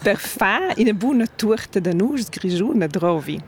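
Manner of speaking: per fa une bonne tourte de noix grigione drovi in Romansh sounds; Romansh sentence. Shown as a demonstration. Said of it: "on va tester avec vous, Marie".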